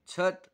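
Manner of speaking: छत with one breathy छ, never च-ह-त; aspirated छत. Shown as a demonstration. Teacher showing the right way to read छत. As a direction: say छत in one clean aspirated syllable. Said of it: "चहत नहीं पढ़ेंगे बल्कि".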